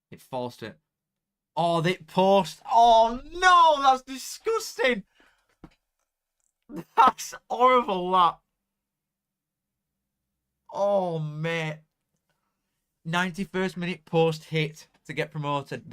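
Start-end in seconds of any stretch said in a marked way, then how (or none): 1.6-8.4 loud, high, slow cry of dismay; anguished shout. Real, not acted. Streamer watching a late shot hit the post, crying out in dismay. Near goal hits post, reacting. 10.7-15.9 slow, loud groan of pity; loud lament. Real, not acted. Streamer lamenting Bradford's post hit, slow and loud.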